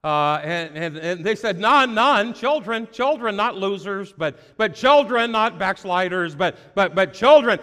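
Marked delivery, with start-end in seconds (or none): 1.6-7.6 insistent correction. Acted. Preacher insisting on children.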